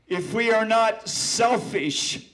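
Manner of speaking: dramatic, slow and loud; first reading, full force; slow loud recital. Acted. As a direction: declaim it with weight. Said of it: "I'm gonna repeat that last stanza".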